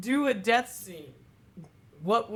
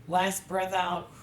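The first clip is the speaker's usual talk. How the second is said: quiet last breath; much slower than usual. Shown as a demonstration. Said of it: "some people do just the quiet last breath".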